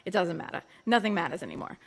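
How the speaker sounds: put-on dismissive Long Island accent. Explaining why Long Islanders talk so, Long Island accent. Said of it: "this is why we talk like this".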